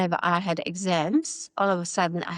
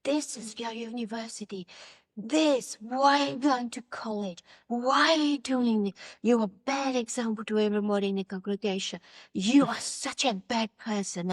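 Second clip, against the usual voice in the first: imitating angry brother; 3 semitones higher than usual. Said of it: "he was just so angry at me".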